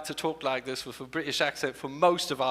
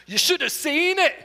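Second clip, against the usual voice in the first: higher Scottish accent phrase; quick Scottish accent demo; 10 semitones higher, 3 dB louder than usual. Shown as a demonstration. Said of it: "one phrase with a Scottish accent".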